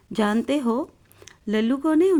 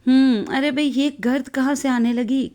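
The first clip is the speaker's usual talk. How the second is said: startled; 2 semitones higher than usual. Acted. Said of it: "چونک کر".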